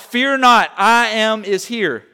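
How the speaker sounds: loud, high, ringing proclamation; crying out. Retold or imitated. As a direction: proclaim it as Jesus, stretching the last words slowly. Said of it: "Jesus cries out".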